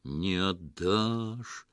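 very slow, ominous alien threat; slow threatening ghostly voice; menacing question. Acted. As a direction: ask it as a threat, drawing it out. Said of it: "с угрозой спросил голос".

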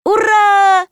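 high, shouted cheer; ликование. A narrator's reading. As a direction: jubilant drawn-out hurrah. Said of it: "заликовала Марина". (ликующий высокий крик)

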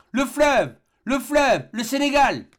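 high, ringing exclamations; each cry pitched high and falling at the end; excited cry. A narrator's reading. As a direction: cry out the sighting in triumph. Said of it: "le docteur s'écria".

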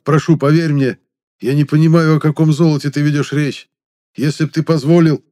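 high, loud, frantic begging; desperate pleading. Acted. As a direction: plead for your life. Captive pleads with his captor.

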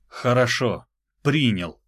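ordinary delivery

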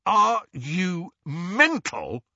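out of breath, gasping; panting. Acted. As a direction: pant it out. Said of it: "a panting voice spoke".

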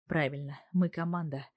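usual speaking voice

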